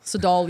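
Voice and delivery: "Sidal" repeated as the botched name; mispronounced name. Retold or imitated. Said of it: "mispronounces my name".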